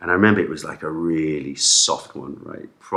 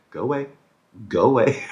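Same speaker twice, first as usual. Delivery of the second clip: shouting; 6 semitones higher, faster than usual. Retold or imitated. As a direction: shoo him off with a yell. Dad repeatedly shouting at manager.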